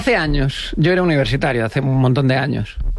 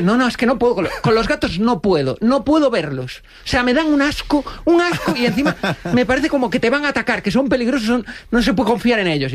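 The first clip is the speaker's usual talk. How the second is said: put-on disgusted girlfriend voice; 6 semitones higher than usual.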